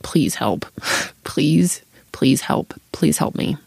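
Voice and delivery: slow, breaking plea with a whispered please; a touch of retold crying; retold pleading sob. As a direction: beg through tears, half laughing. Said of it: "just started bawling".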